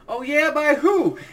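high, loud, slow sarcastic sergeant voice; mock drill instructor. Drill instructor grilling the caught recruit, high sarcastic mock yell. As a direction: drag it out like a mocking sergeant.

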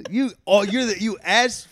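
high, slowed through laughter; laughing while scolding. Real, not acted. Laughing, higher.

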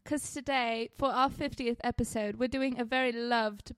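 put-on British accent. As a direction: present it in a playful British accent. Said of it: "Why are you doing the accent?".

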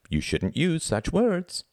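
put-on high, slow, scolding child; haughty schoolboy's slow rebuke; prim boy. A narrator's reading. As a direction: reprove him slowly in a high voice.

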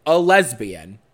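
"lesbian" punched out loud; stress on lesbian. Real, not acted. Speaker pointedly describing the dean to the host, heavy stress on "lesbian". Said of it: "emphasizing the word lesbian".

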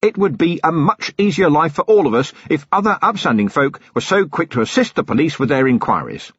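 hammed-up gratitude played to the mob; loud public thanks. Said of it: "and said loudly".

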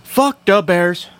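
put-on drawn-out Wisconsin accent jeer. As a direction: jeer like a Wisconsin football fan. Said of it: "that was a Wisconsin accent".

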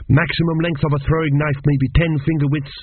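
reciting. Acted. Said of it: "he recited".

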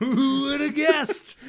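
dry sarcastic question; mock surprise, drawn out. Real, not acted. Mocking obvious plot twist.

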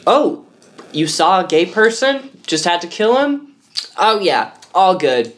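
mock a casual bigot. Mocks homophobic lawmakers.

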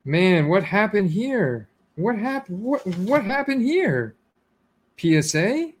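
high, slow stunned "what happened here"; can't believe what he's seeing, pitch jumping up; shocked disbelief. Real, not acted. Shocked by low grade.

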